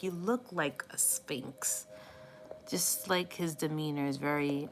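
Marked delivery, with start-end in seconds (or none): 0.0-1.9 slow whispered compliment to the cat. Retold or imitated. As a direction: hush it slowly, in awe. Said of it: "I'm like".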